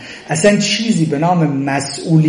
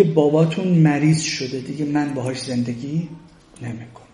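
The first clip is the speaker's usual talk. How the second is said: mock sulky mother; 4 semitones lower, 9 dB quieter than usual. Mother quoted leaving family.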